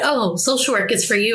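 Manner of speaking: normal talking voice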